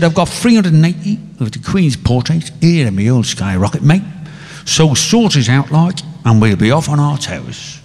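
put-on an Irishman overdoing a Cockney accent; mock Cockney. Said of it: "you can do that Cockney bit".

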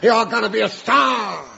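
rally her like a coach; mock showbiz pep talk. Svengali pep talk before the show.

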